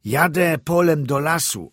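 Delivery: high, loud peasant's answer; shouted reply. A narrator's reading. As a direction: call back over the wind. Driver shouts back in wind.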